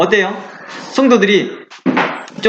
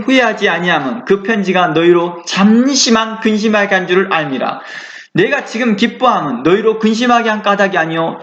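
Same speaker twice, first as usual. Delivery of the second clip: scripture reading. Acted. Reads scripture aloud.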